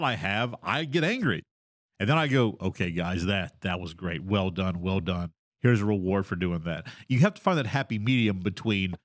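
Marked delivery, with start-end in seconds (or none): 2.6-6.9 reassuring. Retold or imitated. DM praising players, soft voice.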